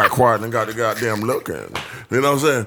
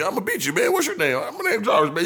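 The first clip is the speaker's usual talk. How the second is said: lightly voiced white man, pitched up; white man mode; 8 semitones higher than usual. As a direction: play the arcade trash talk in a put-on voice. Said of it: "did the white man mode on me".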